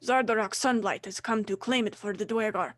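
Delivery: proud, lightly voiced dwarf proclamation; defiant dwarf. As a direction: declare the conquest proudly. Captured dwarf keeps ranting.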